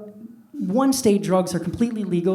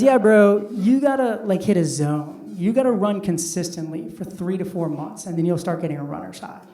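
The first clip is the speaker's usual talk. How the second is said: bro voice. Retold or imitated. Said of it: "They talk like that".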